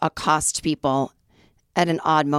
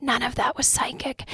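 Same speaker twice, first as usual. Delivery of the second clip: hushed whisper under the breath; 7 semitones higher, 5 dB quieter than usual. Recounting a remark whispered aside after a psychic's reading, retelling a whisper. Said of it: "I'm like whispering to Tony".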